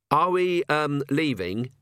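halting, slow tentative question; unsure cleric interrupting; hesitant priest. Acted. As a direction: ask timidly, stretching the um.

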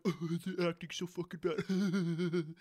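imitated giggly remark, drawn out; mocking laughing kids. Kids laughing during a serious scene, mock giggling. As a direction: mimic a kid talking through laughter. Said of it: "Like, really loud".

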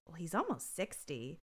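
sympathetic. Retold or imitated. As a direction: say it quietly, imitating gentle sympathy. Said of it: "sympathetically goes".

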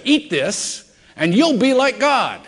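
high, slow serpent's enticement; tempting serpent. Retold or imitated. Serpent tempting Adam and Eve, enticing. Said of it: "That's what the serpent said".

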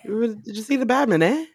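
quick mock Canadian; badly faked Canadian accent. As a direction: rattle off a joking Canadian question. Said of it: "that Canadian accent".

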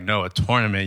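"tournament" said firmly as TOR-na-ment; East Coast pronunciation. Retold or imitated. Insisting to classmates on his own word, East Coast pronunciation. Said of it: "because I would say tournament".

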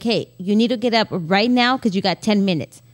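firm, level parental instruction. Shown as a demonstration. Mom telling kids to get up, firm. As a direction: say it firmly without raising the voice. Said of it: "talk to them firmly".

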